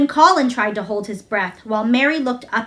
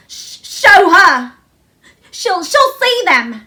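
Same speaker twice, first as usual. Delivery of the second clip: much higher, loud, slow sobbing gasp; gasped between sobs; 7 semitones higher, 7 dB louder, slower than usual. A narrator's reading. Colin gasping between sobs to let Mary see. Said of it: "he gasped out between two sobs".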